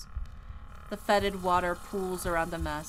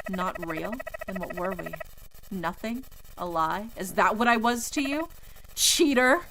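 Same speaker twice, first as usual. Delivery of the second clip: ghost's rising fury; 4 dB louder than usual. Acted. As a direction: spit out cheater at the end. Ghost's anger builds.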